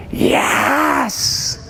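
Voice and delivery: high, drawn-out shout; loud yes. Shown as a demonstration. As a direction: demonstrate a big, long group yell. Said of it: "Like really loud".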